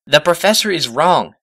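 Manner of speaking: high, firm and certain; firm declaration. Acted. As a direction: state it flatly as fact. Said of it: "declared Twilight".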